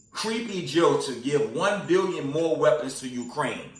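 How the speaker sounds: punchy headline announcement with Creepy Joe hit hard; headline read. Shown as a demonstration. Vlogger reading the RT headline to his viewers, emphatic. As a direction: call out the headline like a news anchor. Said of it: "From the top".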